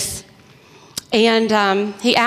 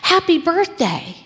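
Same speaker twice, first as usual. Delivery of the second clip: high, bright "Surprise!" call; mock party shout; retold surprise yell; 8 semitones higher, slower than usual. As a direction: call it out like a crowd springing a surprise. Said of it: "then they yelled".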